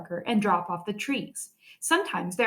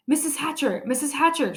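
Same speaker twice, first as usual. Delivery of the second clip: calling out; 6 semitones higher than usual. A narrator's reading. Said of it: "Sheila called".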